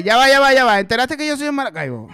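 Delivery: loud, quick territorial boast; proud outburst. Retold or imitated. Maracucho showing off his origin to Caraqueños, loud and quick. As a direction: shout that you're from Maracaibo.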